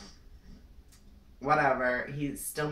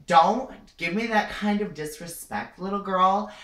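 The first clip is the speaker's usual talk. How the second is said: higher, louder imitated telling-off; scolding clerk; 4 semitones higher, 5 dB louder than usual. Store clerk rebuking a disrespectful customer, mock scolding. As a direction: scold like an affronted shop clerk.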